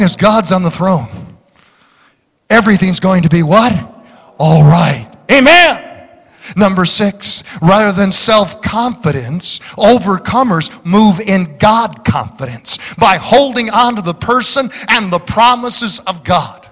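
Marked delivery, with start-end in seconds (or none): none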